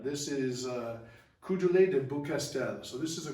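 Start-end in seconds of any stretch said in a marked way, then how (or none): 1.4-2.8 Coudelet de Beaucastel said the French way; a light, best-effort French accent on the name. Shown as a demonstration. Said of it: "I said that with my best French accent".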